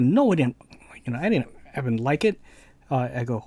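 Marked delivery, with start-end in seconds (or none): 0.0-2.4 mock upset outburst. Friend telling the narrator he hated the game, mock upset outburst. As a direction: replay the friend's flustered complaint, fast. Friend retelling his angry reaction.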